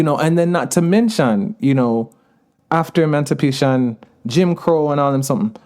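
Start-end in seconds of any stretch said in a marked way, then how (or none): 5.0-5.5 patois verbal filler in a Jamaican accent. Real, not acted. Speaker tossing in a verbal pause, in Jamaican patois. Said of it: "is a patois thing".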